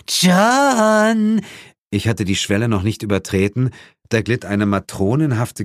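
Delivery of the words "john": high loud calling out. Acted. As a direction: call across the room. Woman calls loudly. (lauter Ruf)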